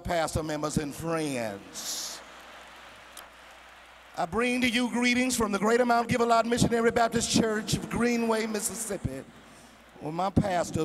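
lofty churchy speech read with pomp; mock formal church greeting. Visitor greeting the congregation, proper church cadence. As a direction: recite it like a nervous church visitor.

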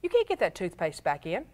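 a hint of a small boy pleading; little kid. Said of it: "a little kid looking, going".

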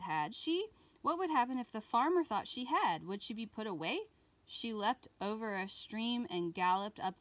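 put-on lively read-aloud for young children; gentle classroom story voice; storybook reading. A narrator's reading. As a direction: read it like a picture book to kids. Reading picture book to class.

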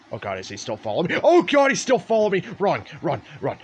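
being chased. Real, not acted. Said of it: "this guy's still following me".

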